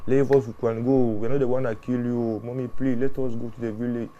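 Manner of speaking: mild imitation of a pleading child; lightly acted child's plea to mommy; retold tearful begging. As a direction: plead like a little girl, without real tears. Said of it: "crying, crying, beg the mother".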